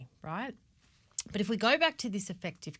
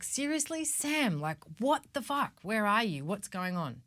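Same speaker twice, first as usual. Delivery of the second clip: exasperated, pitched up high; mock annoyed outburst; 3 semitones higher than usual. Annoyed partner demanding where Sam is, high exasperated outburst. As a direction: let the irritation spike on Seriously. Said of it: "really annoyed".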